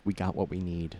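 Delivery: soft mouthed whisper to a teammate. Acted. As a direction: breathe it so nobody overhears. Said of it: "Kate is kinda whispering or mouthing".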